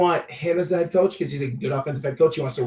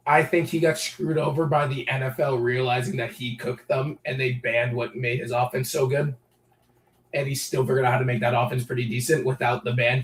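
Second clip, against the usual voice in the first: hoarse voice; 2 semitones lower than usual. Real, not acted. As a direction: voice nearly gone, rough and worn. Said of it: "sorry, my voice is gone".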